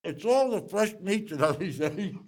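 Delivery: talking through a mouthful of hoagie; mouth full. Real, not acted. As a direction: chew and talk at the same time. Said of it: "I talk with my mouth full".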